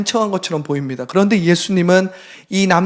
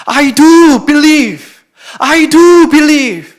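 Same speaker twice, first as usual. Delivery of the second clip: loud, higher, drawn-out plea; desperate cry; 7 semitones higher, 7 dB louder, much slower than usual. Acted. The father begs Jesus to help his son, loud and desperate.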